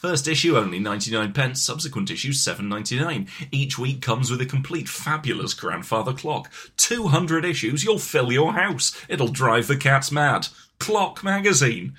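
mock TV advert voice; hammed-up magazine commercial; ad read. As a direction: sell it like a partwork magazine ad.

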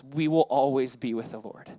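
a slow reflective echo; slow meditative repeat. Shown as a demonstration. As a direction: slowly savour each word of We will always be with the Lord. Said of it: "Some of these phrases I just want to meditate on".

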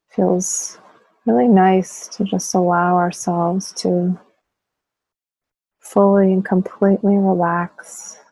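unhurried guided relaxation with long pauses; guided meditation. Real, not acted. Teacher guiding listeners to tense and relax muscles, guided meditation voice. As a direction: lead them gently through it, pausing between phrases.

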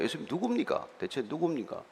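hushed, confidential question; softly voiced mock whisper; imitated whispering. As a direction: ask softly, as if whispering to someone close. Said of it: "속삭이듯이 물어본 거예요".

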